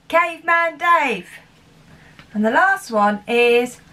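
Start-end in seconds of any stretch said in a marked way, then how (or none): 0.1-1.3 gruff caveman voice. Shown as a demonstration. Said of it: "we'll do the caption action together".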